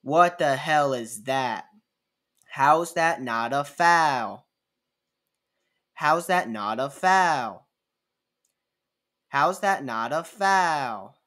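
slow, loud, outraged complaint at the refs; angry coach yelling. Retold or imitated. Coach berating the referees, mock outrage. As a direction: read it like a furious coach. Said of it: "He says".

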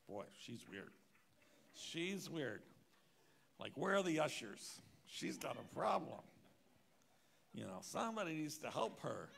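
mock-disdainful, calling for the ushers; judgmental inner voice. Pastor judging the shaking lady, scornful and loud. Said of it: "And I'm thinking".

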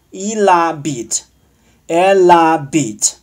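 il and elle habite linked as "ee-la-BEET, eh-la-BEET"; teacher's slow liaison model; linked pronunciation. Shown as a demonstration. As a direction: slowly run the l into the vowel. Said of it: "这里要连读".

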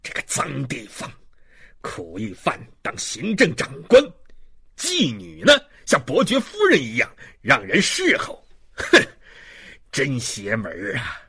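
furious contemptuous rant. Acted. Policeman denouncing the prisoner before the woman, furious. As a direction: berate them, erupting on the insults.

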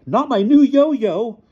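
high, drawn-out loud wail; desperate begging. A narrator's reading. Tycho pleads for his new yo-yo, wailing. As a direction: wail the plea like a small boy. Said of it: "Tycho begged him".

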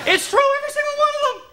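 high, fast shouted insistence; indignant shout. Acted. Teacher insisting to the class on a sweeping claim, indignant shout. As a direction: shout it out all in one rush.

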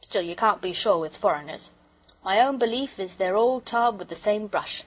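lightly voiced working-man porter; a hint of cockney railwayman; opinionated porter. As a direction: give a firm homespun opinion.

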